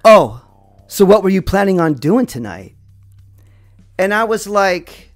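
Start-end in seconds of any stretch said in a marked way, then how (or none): 0.0-2.7 mock-curious, with a punched "oh"; sarcastic. Stranger with hands on hips questioning the teller, sarcastic. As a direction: needle them with a sarcastic question. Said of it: "he sarcastically asked me".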